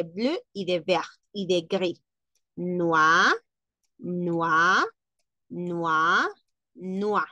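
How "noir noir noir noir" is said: noir said nwah, four times alike; French noir. Shown as a demonstration. Teacher models noir in French for listeners. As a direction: repeat noir as nwah each time. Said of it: "se pronuncia exactamente igual".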